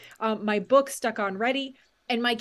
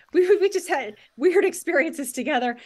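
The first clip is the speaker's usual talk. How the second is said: laughing; 6 semitones higher, 6 dB louder than usual. Real, not acted. Laughing about weird family experiences.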